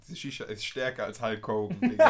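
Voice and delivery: breathless from the strong shisha; short of breath. Real, not acted. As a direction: gasp the words out, short of air. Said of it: "Ich krieg keine Luft mehr".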